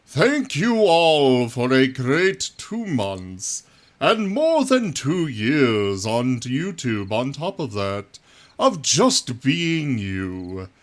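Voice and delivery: grand thank-you announcement delivery. Pretend. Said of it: "was that an acceptable voice?".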